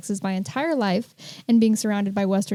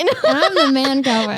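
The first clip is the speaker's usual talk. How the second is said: laughing; 3 semitones higher, 6 dB louder than usual. Real, not acted. Joking about cowboy roles.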